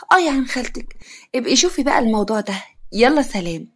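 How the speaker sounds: cool, dismissive aunt; coolly. Acted. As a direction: brush her off with mild coldness. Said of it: "خالتها ببرود".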